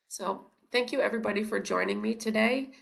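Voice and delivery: blocked nose, hoarse voice; stuffy nose. Real, not acted. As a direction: speak through a stuffy nose. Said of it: "my voice and my stuffy nose".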